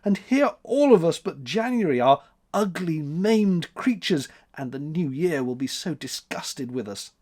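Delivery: high tearful lament; plead, near tears; sobbing. A narrator's reading. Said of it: "sobbed April".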